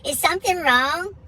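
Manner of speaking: high wife voice, questions lifting up; concerned wife. Retold or imitated. Wife checking on husband hammering outside, high and concerned. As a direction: imitate a wife gently checking on him. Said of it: "my wife comes outside".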